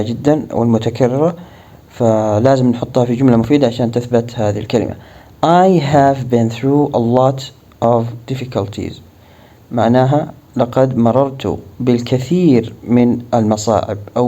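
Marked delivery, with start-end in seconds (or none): 5.4-8.9 slow model sentence. Shown as a demonstration.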